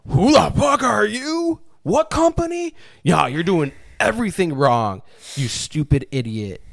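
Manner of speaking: mocking a city inspector yelling at contractors; mock angry inspector. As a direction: bark it like a petty official. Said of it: "You're just like".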